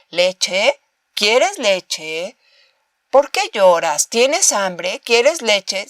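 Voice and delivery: gentle simple parentese, barely acted; simple baby talk. Shown as a demonstration. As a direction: keep it basic like talking to a baby. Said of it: "le diríamos cosas como".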